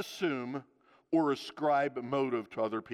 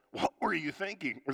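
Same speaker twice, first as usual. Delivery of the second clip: gentle question; 2 semitones higher than usual. Shown as a demonstration. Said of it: "if you don't say it with sarcasm".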